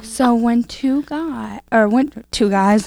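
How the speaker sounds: slow, hesitant mom explanation; mom lecturing, slowed. Retold or imitated. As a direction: mom fumbling for the words. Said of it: "she's like".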